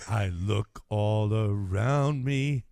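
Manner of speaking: low, slow creepy sing-song; a lightly voiced creepy villain; villainous voice. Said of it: "Sounds like a villain".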